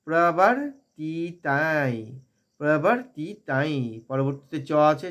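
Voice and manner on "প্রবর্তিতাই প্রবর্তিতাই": "প্রবর্তিতাই" slowly, the end gliding into a nasal; syllable by syllable "প্রবর্তিতাই", last vowel drawn out; nasal before ch. Shown as a demonstration. Teacher drilling the word, slow "প্রবর্তিতাই" with nasal ending. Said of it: "চয়ের আনুনাসিক ইয়া".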